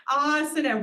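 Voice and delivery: "asana" as AA-sana, stressed at the start; long first vowel. Shown as a demonstration. Teacher correcting students, long-first-vowel "asana". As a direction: stress and lengthen the opening "a" of "asana". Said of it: "This is a long vowel at the beginning".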